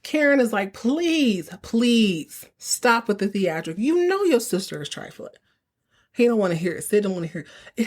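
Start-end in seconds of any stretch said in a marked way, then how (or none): 0.7-5.3 exasperated scolding. Retold or imitated. Karen scolding, slow.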